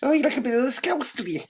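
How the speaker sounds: quick, playful whisper, pitched high; ribbing a friend who loves the Scouse accent, whispered; teasing whisper. Real, not acted. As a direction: whisper the tease with a grin. Teasing friend about loving Scouse.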